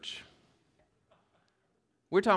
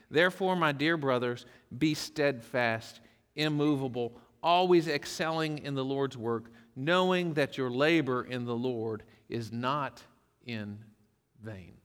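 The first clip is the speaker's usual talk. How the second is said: affectionate; 3 semitones lower than usual. Shown as a demonstration. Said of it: "he says this to them affectionately".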